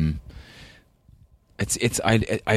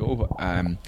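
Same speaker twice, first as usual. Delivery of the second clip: put-on Scottish accent. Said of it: "still speaks with a Scottish accent".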